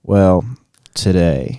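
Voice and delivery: hammed-up Southern storyteller; Southern twang. Shown as a demonstration. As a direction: put on a slowed-down Southern accent. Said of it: "slow it down and then add some twang".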